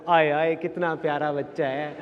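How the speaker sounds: slow, drawn-out imitated cooing; doting relatives. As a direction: fuss fondly over a little child. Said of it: "मेरे को प्यार करते थे".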